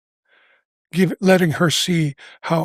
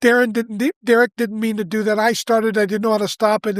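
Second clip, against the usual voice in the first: a touch of tearful daughter, higher; lightly voiced weeping girl confessing; imitating daughter weeping; 5 semitones higher than usual. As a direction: pitch up a little, half-tearful confession. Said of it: "Then she's weeping and she says".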